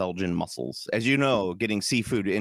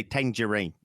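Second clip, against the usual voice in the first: Cockney vowels on the single word; Michael Caine. Shown as a demonstration. Host teaching the key word, Cockney accent. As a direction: say it in a London accent. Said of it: "gets you in the Michael Caine".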